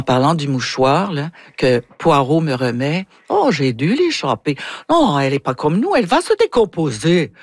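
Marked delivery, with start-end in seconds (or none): 3.3-7.3 theatrical Russian princess with swooping intonation; Natalia's Russian accent. Shown as a demonstration. Actress plays her princess speaking of a dropped handkerchief, Russian accent. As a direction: modulate the lines with a Russian accent. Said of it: "je baisse un peu ma voix, puis je module".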